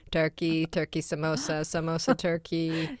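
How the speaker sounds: deadpan food-list delivery; imitating brother's tone. Deli owner reciting the menu to a customer, deadpan. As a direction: list dishes evenly, mimicking her brother. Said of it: "Just in that exact tone as well".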